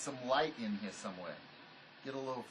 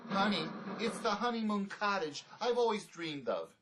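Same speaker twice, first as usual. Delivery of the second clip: sarcastic; 4 semitones higher than usual. Acted. Sarcastic about shabby shack.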